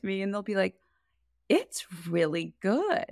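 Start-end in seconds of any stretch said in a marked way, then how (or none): 1.5-3.0 underwhelmed mock praise. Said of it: "But they say it in a way where".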